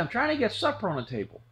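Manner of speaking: quick, high, put-upon retort; harried mom. Retold or imitated. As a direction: rattle it off, annoyed and busy. Mom answers from busy kitchen.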